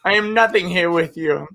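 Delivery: halting mock lover with a slight European accent; stilted, lightly European-accented love letter; creeping European accent. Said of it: "Like that accent creeping in".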